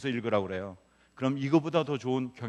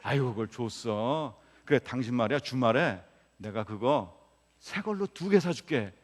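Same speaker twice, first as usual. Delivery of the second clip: demonstrated sympathy. Shown as a demonstration. Husband promising his wife a new one, demonstrated sympathy. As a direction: act out soothing a wife, drawing the words out. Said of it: "그러나 이 사람이 그렇게 생각을 하므로".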